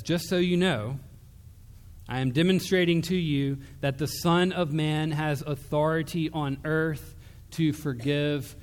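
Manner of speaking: commanding preacher's proclamation; bold proclamation. Acted. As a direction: announce it with full authority. Jesus proclaims authority.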